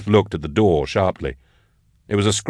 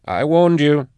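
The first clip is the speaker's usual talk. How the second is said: final warning; 8 semitones higher, slower than usual. A narrator's reading. Last warning before firing.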